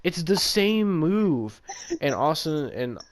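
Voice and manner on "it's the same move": high, exasperated rant; mock fury at the commentators; retold outburst. To Austin while watching, high exasperated rant. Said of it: "this pissed me off, because I'm like".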